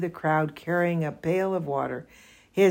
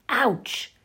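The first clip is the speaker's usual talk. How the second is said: scream; 6 semitones higher than usual. A narrator's reading. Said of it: "he screamed".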